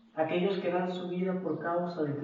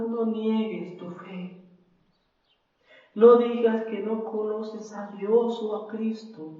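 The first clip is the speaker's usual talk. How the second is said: put-on pleading child; 3 semitones higher than usual. Daughter pleads with mother.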